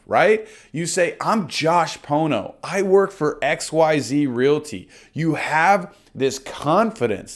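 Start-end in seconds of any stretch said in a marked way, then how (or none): 1.2-4.9 slow, confident self-introduction; with oomph. Shown as a demonstration. Coach showing how to say your name with confidence. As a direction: say your name with pride and energy. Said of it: "You say it with some oomph".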